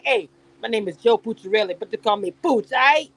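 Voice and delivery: lightly mocking self-introduction in character; Joe Pucciarelli. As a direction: play a hint of an imagined Pooch, punchy at the end. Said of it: "I can hear him saying".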